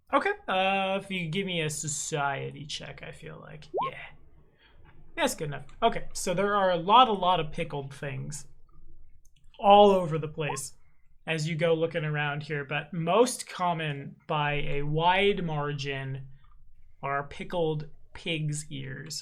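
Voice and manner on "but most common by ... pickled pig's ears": slower, slow and careful delivery. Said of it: "I had to say that slower".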